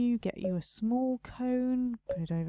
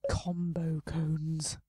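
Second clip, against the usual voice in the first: slow breathy whisper; 4 semitones lower, 3 dB quieter, much slower than usual. Real, not acted. Choosing shop items alone, a slow whisper. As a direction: murmur the item name under your breath.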